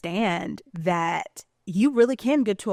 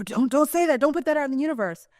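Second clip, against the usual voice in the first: mimicked warning; 6 semitones higher, faster than usual. Mimicking fearful people's warnings.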